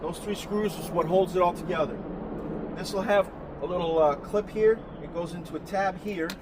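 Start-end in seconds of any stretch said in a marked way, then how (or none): 0.0-4.8 loud, raised voice over rotor noise; yelling over helicopter. Real, not acted. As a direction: shout over a helicopter flying past. Helicopter overhead, he talks over it.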